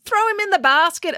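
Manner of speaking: high, urgent instruction; urging. A narrator's reading. April to Joe as Finn slips, urging. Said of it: "urged April".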